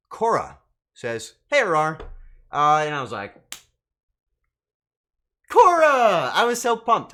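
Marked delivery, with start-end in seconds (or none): 1.5-2.0 loud mock voice from the heavens; booming heavenly voice. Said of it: "like, a booming voice from the heavens above". 5.5-7.1 loud, high, overjoyed shout; excited cry. Retold or imitated. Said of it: "I was so excited".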